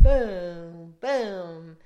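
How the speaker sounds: long drawn-out booms; imitated boat slamming. Telling how the Boston Whaler hit huge waves, drawn-out booms. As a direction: draw out each boom like a hull hitting waves.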